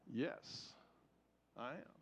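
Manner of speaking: put-on a frightened old man's weak admission; barely voiced, lightly imitated confession; scared dying man. Dying man admits fear, tearful.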